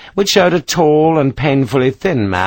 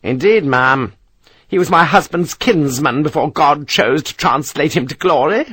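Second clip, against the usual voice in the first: higher, imperious matron voice; pompous English matron, a little higher; haughty old lady; 5 semitones higher than usual. Acted. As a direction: talk down to him like a grand dame. Mrs Parker voiced in novel.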